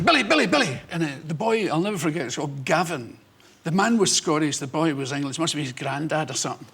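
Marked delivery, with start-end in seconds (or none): 0.0-0.8 raised, high repeated call; calling after someone. Retold or imitated. Grandfather calling to the comedian on the beach, calling out. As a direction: mimic a man calling a name. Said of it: "And, uh, he's going".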